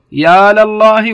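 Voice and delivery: "يا لله" drawn out slowly with the lam opened; slow demo example. Shown as a demonstration. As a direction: teach "يا لله" slowly and loudly. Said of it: "يا لله ويا لرسوله". ("يا لله" ببطء وفتح اللام)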